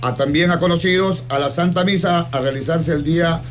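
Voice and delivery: solemn radio invitation, evenly paced; formal announcement reading. Acted. Radio host reads a friend's memorial mass invitation to listeners, formal announcement.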